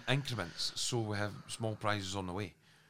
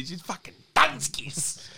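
slow breathy whisper; whispered aside; 7 semitones higher, much slower than usual. Acted. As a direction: whisper the joke slowly.

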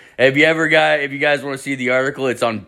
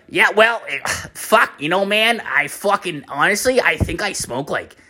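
higher, hesitant stoner voice with a sigh; coworker impression; 5 semitones higher than usual. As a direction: fumble toward an answer as the coworker. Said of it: "he talks exactly how I'm talking right now".

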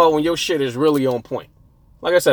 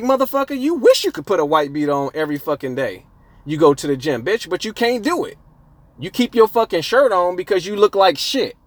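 higher-pitched heated clapback at a gym heckler; imagined comeback; 4 semitones higher than usual. Pretend. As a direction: tell the guy off like you wish you had. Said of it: "That's what I want to tell this dude".

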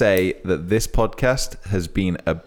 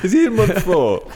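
surprised; 12 semitones higher, 5 dB louder than usual. Real, not acted. Shocked disbelief, laughing.

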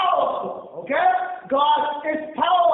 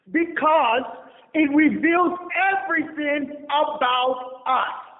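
solemn quote reading; slower than usual. Retold or imitated. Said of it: "He says".

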